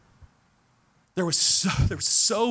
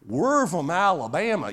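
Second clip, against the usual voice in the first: Southern drawl. Retold or imitated. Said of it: "with this long drawn out".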